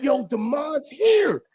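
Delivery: shouting the news to everyone, slowed and high; excited shout. Retold or imitated. Calling everyone on three-way, excited shout. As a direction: call it out like he's really back.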